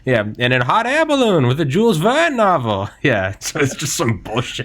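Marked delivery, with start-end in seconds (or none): 0.0-2.9 put-on old-timey voice. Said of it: "Old-timey voice".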